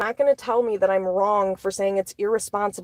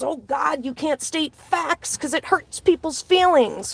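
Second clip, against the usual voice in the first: mocked extreme liberal; 6 semitones higher than usual. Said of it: "Are they a weirdo extreme liberal".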